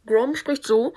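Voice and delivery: slow radio-filtered voice; walkie-talkie voice. Shown as a demonstration. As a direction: talk like through a walkie-talkie. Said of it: "spricht ja immer durch ein Mikrofon".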